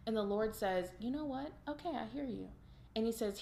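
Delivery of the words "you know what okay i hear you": softer, higher, understanding retold reply; gently reassuring. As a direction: lightly voice a kind, listening God. God gently answers scared Elijah.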